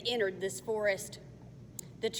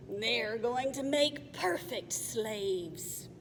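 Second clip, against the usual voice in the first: gloating goblin; slower than usual. Acted.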